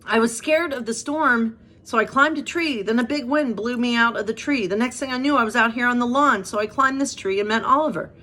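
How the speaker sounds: a touch of tears throughout; mild crying cub. Acted. Lost bear cub telling Dodger his story, a touch teary. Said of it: "the bear started to cry".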